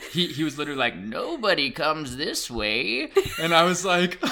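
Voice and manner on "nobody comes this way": slow, higher slasher-movie warning; ominous old gentleman. Retold or imitated. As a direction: draw it out like a horror-film omen. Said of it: "like I'm being warned by a slasher".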